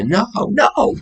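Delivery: high mock squeal of no; high mock protest; squealed refusal. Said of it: "mock refusal in retold scene".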